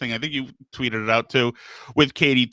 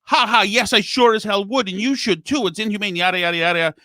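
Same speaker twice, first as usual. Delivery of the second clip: higher-pitched mock indignant reply, trailing into yadas; retold Twitter opponent; 6 semitones higher than usual. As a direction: lightly mimic an opponent's righteous comeback. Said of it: "And he said".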